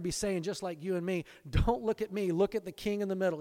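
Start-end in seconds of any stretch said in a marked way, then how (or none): 1.5-3.4 higher, louder, hurried acted plea; imagined urgent deflection. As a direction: wave the attention away onto someone greater. Saints deflecting attention to the King.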